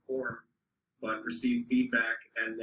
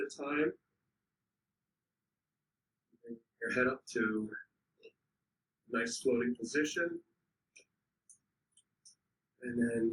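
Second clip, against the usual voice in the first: unhurried instructions with long pauses between phrases; guided warm-up. Real, not acted. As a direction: lead a group gently through stretches, leaving time to move. Leads a slow physical warm-up.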